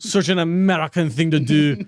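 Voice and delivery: light mock French accent. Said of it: "reading that in a French accent".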